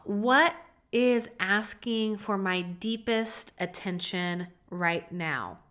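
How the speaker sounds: soft, slow, reflective; gentle inner question. Pretend. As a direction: ask yourself tenderly. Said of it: "Asking yourself".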